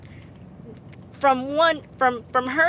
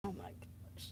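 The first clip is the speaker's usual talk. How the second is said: hide in the words, barely voiced; mortified whisper; 3 semitones lower, 23 dB quieter than usual. Real, not acted. Streamer to her audience, whispering in embarrassment.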